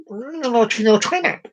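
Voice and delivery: high, hammed-up tearful voice; mock crying. Crying passenger answering the Englishman in a joke, mock crying. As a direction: wail it up high, badly faked. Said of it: "starts to cry a little bit".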